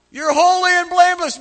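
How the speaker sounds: high, booming proclamation; loud divine declaration. Acted. God declaring a doubter blameless, loud proclamation.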